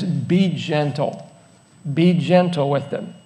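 soft, low and slow; gentle. Shown as a demonstration. Preacher advising folks on the easily offended, gently. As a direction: drop down low and ease off softly.

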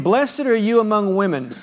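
steady pulpit reading; read aloud. Shown as a demonstration. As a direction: read the line as scripture, not shouted. Read once, later hollered.

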